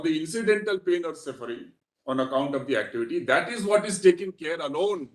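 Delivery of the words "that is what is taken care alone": "alone" pressed firmly at the end, "taken care alone"; stress on alone. Real, not acted. Counsel to the judges, weighing "alone" heavily. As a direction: lean on "alone" as the key word. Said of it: "I'm emphasizing the word alone".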